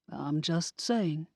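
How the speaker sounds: slow, soft and controlled; calm, controlled. Acted. Rufus calmly defending himself to the witches, slow and soft. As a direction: keep it calm and even, holding back frustration. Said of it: "his voice was calm, controlled".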